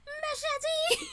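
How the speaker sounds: a high, playful battle cry; mock yell. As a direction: yell it like a charging attacker, half joking. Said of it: "it's like".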